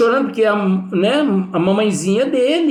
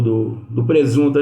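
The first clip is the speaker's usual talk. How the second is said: says "presunto" by mistake, stumbling; halting "do, do presunto" before catching the slip; slip of the tongue; 4 semitones lower than usual. Real, not acted. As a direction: trip over the word and say "presunto" instead of "defunto". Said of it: "Eu ia falar defunto, foi presunto".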